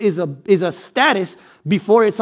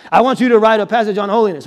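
God voice. Pretend. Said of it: "That's my God voice".

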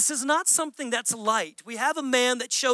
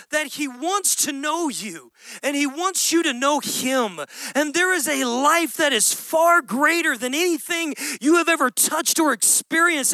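earnest appeal; 3 semitones higher than usual. Retold or imitated. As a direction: pour your heart out to them. Model words to say to others.

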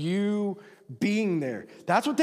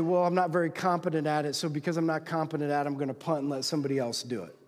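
resigned excuse; 4 semitones lower, faster than usual. Acted. Man saying he is not competent, resigned excuse. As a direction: shrug it off and hand it away. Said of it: "you're gonna say".

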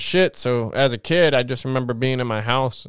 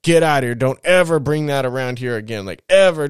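emphatic mock-angry dad, louder at both ends; dad freaking out, retold; 2 semitones higher, 4 dB louder than usual. Dad throwing his daughter out, retold freak-out. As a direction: imitate a father laying down the law. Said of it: "he's, like, freaking out".

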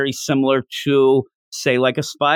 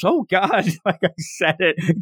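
horrified realization; 4 semitones higher than usual. Retold or imitated. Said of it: "she looks horrified".

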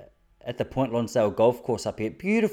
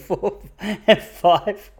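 laughing count; 7 semitones higher, 3 dB louder, much slower than usual. Real, not acted.

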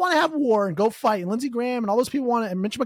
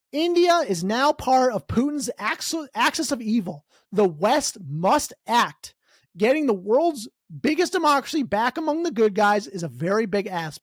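reading a quote. Shown as a demonstration. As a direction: read it out like an ominous headline.

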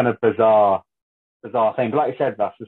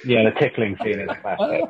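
laughing. Real, not acted. Laughing recalling tickling scene.

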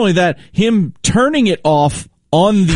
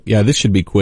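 sarcastic; 5 semitones lower, faster than usual. Retold or imitated. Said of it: "Soroy's sarcastic".

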